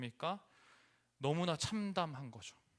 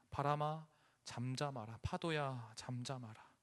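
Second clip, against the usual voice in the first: calm command; 4 semitones lower, 6 dB quieter than usual. Acted. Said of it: "바람과 물결을 향해 꾸짖으십니다".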